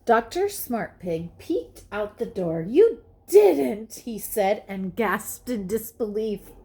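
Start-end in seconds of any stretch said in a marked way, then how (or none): 2.6-3.9 louder, higher shocked; disbelieving gasp. A narrator's reading. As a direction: say it aghast. Gasped in disbelief.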